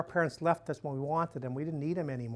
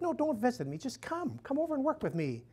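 put-on raspy old Mother Teresa; 9 semitones higher than usual. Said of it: "this raspy old voice".

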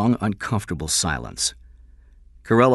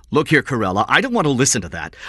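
louder, higher indignant protest; 7 semitones higher, 6 dB louder, faster than usual. Acted. King rebuking the detective who insulted him, indignant.

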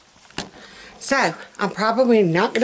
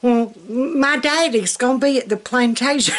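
mock Southern belle; 4 semitones higher than usual. Mocking the plantation Southern belle, a light haughty put-on. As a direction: toss it off like a spoiled plantation belle. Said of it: "That's your Southern belle".

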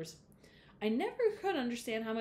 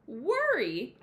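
put-on surprised boy, louder; big-eyed surprise; 4 semitones higher, 6 dB louder than usual. A narrator's reading. Jay Barry surprised at Mama's worry, louder. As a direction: ask it wide-eyed.

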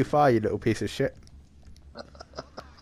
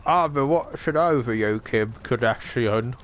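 put-on Armenian accent, name drawn out; mock Armenian, stretching out the name; attempted Armenian accent. Joking as a hologram speaking to Kim Kardashian, in an attempted Armenian accent. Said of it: "I think that's an Armenian accent".

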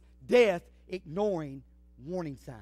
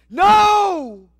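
high, loud scream of no; girl's scream; 10 semitones higher, 13 dB louder than usual. Retold or imitated. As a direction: cry out in panic. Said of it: "the girl screams".

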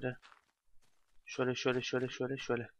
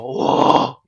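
1 excited whoop; 13 dB louder than usual. Real, not acted. Mining blocks break at once.

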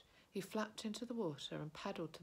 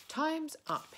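much higher and louder, calling time; triumphant call; 11 semitones higher, 9 dB louder than usual. Acted. Bilbo tells Gollum his time is over, loud higher call. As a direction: call it out boldly.

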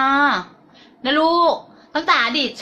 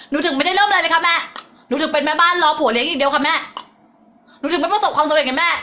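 higher-pitched, dutiful reply; pupil answering mother; 4 semitones higher than usual. Acted. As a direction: answer like a child reporting to mother. Acts pupils answering mother's question. (เสียงสูงขึ้น แบบลูกตอบแม่)

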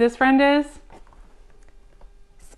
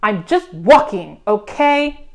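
loud, slow, grumpy insistence; exasperated outburst; 4 dB louder, slower than usual. Acted. Grumpy Bird answers Fox, exasperated insistence. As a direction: insist it, thoroughly fed up. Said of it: "shouted Bird".

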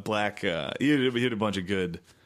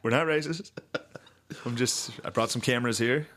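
mock Pence; 3 semitones higher than usual. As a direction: play a smug politician, half-joking. Mocking Pence at church.

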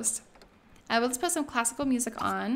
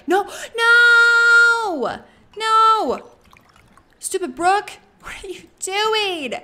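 high, loud cries of protest; long wailed no, then scolding shout; alarmed yelling; 11 semitones higher, 11 dB louder, much slower than usual. Real, not acted. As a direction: yell to stop someone in a panic. Yelling at game character to stop.

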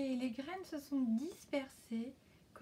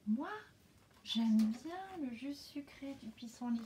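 whispering butterfly. Acted. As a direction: breathe the words like a butterfly. The butterfly speaks.

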